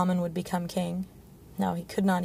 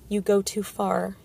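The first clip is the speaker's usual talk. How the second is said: warning; slower than usual. Acted. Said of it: "he warned".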